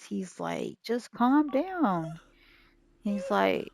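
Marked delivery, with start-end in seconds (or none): 0.8-2.2 slow, stretched-out pretend soothing; calming down. Man tells angry boy to settle, slow mock calming. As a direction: draw it out to settle him.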